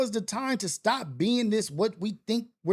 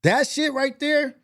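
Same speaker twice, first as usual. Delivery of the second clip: shouted, higher and louder; excited shout; 6 semitones higher, 5 dB louder than usual. Real, not acted. Telling viewers this moment matters, loud excited shout. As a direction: shout it out with full conviction.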